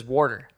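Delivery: "water" with an added R, like WOR-ter; Midwestern pronunciation. Retold or imitated. Son mimicking his dad's word, Midwestern pronunciation. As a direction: slip an R into "water". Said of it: "Midwestern way of saying water".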